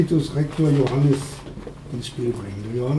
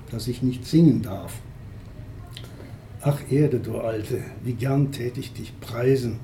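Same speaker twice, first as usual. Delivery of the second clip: measured recital with pauses between lines; poetry reading. Acted. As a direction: read the poem line by line, letting phrases sink at the end. Liest Gedichte von Johannes Pöthen vor. (Gedichtlesung, Vers für Vers vorgetragen)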